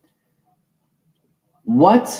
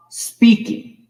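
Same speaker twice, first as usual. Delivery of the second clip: whispered; 9 semitones higher, 3 dB louder than usual. Acted. Repeating the word with mystical emphasis.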